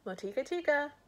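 high, loud call from the hut. Acted. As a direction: call the boy in from outside.

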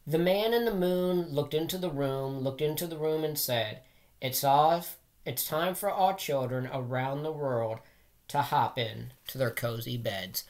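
gentle bedtime rhyme reading, easing down at the end. Acted. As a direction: read it like tucking children in. Bedtime nursery rhyme read aloud.

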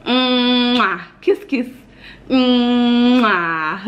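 high, loud smacking kiss noises. Real, not acted. Mom blowing kisses to her toddler, tender. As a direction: blow kisses to a little one. Kissing her child goodbye.

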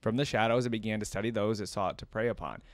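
measured storybook reading; story narration. A narrator's reading. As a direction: narrate a dark tale with care. Reads villain lore aloud.

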